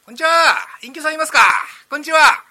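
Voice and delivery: loud, high greeting at the door; loud, high cheerful hollering; calling out. Acted. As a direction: call out cheerily into the house.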